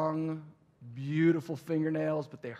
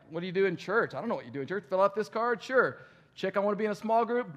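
acted dialogue; 6 semitones higher, 6 dB louder than usual.

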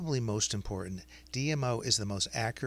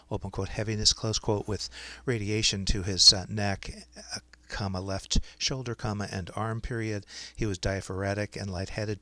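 dictating. Shown as a demonstration. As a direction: dictate clearly to speech software. Dictates a medical note to software.

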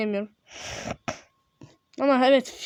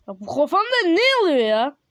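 higher, louder bewildered question; raised-voice puzzled protest; baffled outburst; 5 semitones higher, 5 dB louder than usual. Real, not acted. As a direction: exclaim in confusion. Baffled by game character.

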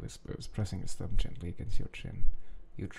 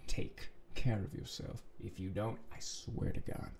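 hushed warning; 5 dB quieter than usual. Acted.

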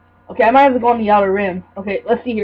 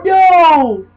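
loud, higher, drawn-out cry; dismayed cry; 5 semitones higher, 5 dB louder than usual. Real, not acted. Player reacting to a game mishap, dismayed cry.

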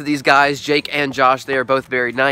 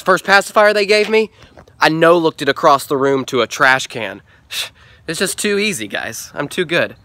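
impression of Josh. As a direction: brag like a smug trick-shot pro who finds it all too easy. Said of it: "Here's my impression of Josh".

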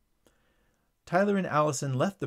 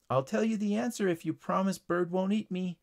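higher-pitched, mildly pleading voice; pleading ladybug; 6 semitones higher than usual. Acted. Ladybug bargaining with Tyler for safety, pleading. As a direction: bargain in a small, raised voice. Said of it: "pleaded the ladybug".

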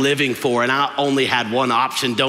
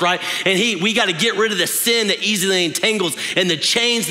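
higher, rising preacher's call; preaching; 3 semitones higher than usual. Acted. Pastor rallying his congregation to keep running, impassioned preaching. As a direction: urge the church on with fervour.

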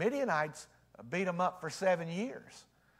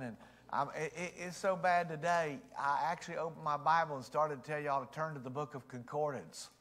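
ordinary delivery

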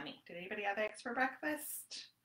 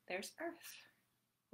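gasp of wonder; 8 dB quieter than usual. Acted. Reading picture book.

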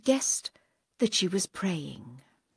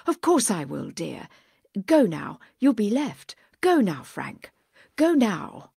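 hurried, louder urging; agitated; 5 dB louder than usual. Acted. Grandma urging her son to leave, mildly agitated. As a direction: push him off the boat in a fluster. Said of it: "very agitated".

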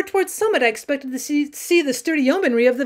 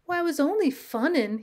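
put-on mild sulky boy, a bit softer; sullenly; 3 semitones higher, 4 dB quieter than usual. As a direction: grumble it like a scolded kid, lightly. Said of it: "he says sullenly".

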